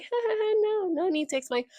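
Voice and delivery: high, quick laughed-off brush-off; mock laughing dismissal. He laughs off her question about the tattoo, mock laughing. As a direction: imitate a smug high ha-ha, then wave it away.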